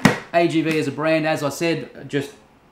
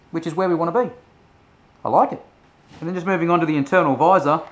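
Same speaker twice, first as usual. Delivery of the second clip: cheeks squeezed by padding; speaking inside closed helmet; muffled through helmet; 4 dB louder than usual. Real, not acted. Seen 2: Speaker wears full-face helmet, visor open, cheeks pressed, throughout.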